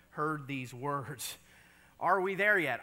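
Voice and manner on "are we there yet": put-on whiny kid asking again and again; pestering child. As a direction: nag like a bored child in the back seat. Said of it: "as a child I used these words".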